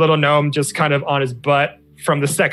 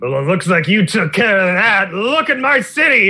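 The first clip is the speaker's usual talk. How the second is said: rising to a high, indignant outcry; angry rebuke; 7 semitones higher, 4 dB louder than usual. Acted. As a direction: scold them, pitch climbing sharply. Commander rebukes them over wrecked city.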